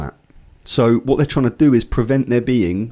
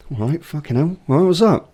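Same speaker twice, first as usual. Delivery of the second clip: exasperated; 5 semitones higher than usual. Retold or imitated. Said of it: "I'm like".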